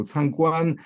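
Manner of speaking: "Cangguan" with GUAN stressed. Shown as a demonstration. Lecturer reads phrase book example, "Cangguan" stressed on GUAN. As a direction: put the weight on GUAN in "Cangguan". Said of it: "guan is stressed".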